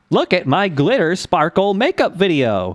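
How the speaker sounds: put-on sing-song text-to-speech voice with a Californian accent. Imitating the TikTok default voice lady: imitating TikTok default voice with Californian accent. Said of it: "I think your imitation's a little bit better".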